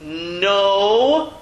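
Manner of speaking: Noach drawn out, vowel then throaty ch; teacher modelling Noach slowly; Noach spelled out. Shown as a demonstration. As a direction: stretch Noach to show the spelling. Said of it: "look at the way it's spelled".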